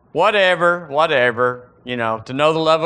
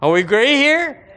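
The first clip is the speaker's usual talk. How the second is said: ordinary talk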